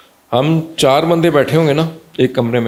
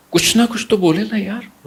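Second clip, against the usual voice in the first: much higher-pitched, pleading quote; mock plea; 9 semitones higher than usual. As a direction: voice a wishful plea, pitched well up. Voices what is hoped of child. (اونچی آواز میں التجا کی نقل)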